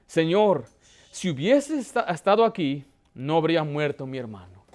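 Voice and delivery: humble. Acted. Mary at Jesus' feet after her brother's death, humbly. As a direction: grieve at his feet, understated. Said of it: "La otra hermana tenía más humildad".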